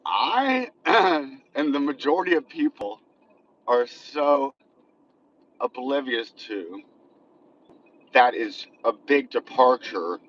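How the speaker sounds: shaky voice from a bumpy ride; on a bumpy road. Real, not acted. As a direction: voice jolted by shaking. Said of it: "I'm sorry for the shaking".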